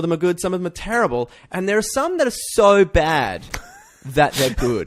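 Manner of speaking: grinning, laughter breaking in; laughing through it. Real, not acted. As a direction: fight back a laugh as you say it. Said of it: "I love the way your face changes".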